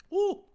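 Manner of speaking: sharp high woo; high yelp from hot food. Real, not acted. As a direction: yelp at a burning mouthful. Soup too hot.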